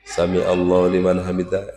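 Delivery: imam's prayer call held on one note; recited aloud. Shown as a demonstration. Imam reciting aloud for followers behind, chanted evenly. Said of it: "itu dikeraskan".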